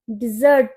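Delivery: डिजर्ट with a short "di", stress on "zert"; dessert pronunciation. Shown as a demonstration. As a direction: say डिजर्ट as "di-ZURT", not "DEH-zert". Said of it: "जब हम मीठे की बात करेंगे". (डिजर्ट, दूसरे हिस्से "ज़र्ट" पर ज़ोर)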